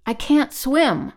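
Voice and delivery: high, slow cry of helplessness; stricken. A narrator's reading. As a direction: plead helplessly, loud and drawn out.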